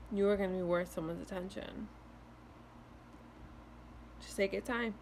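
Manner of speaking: talking through hiccups; hiccuping between words. Real, not acted. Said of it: "sorry for the hiccups right now".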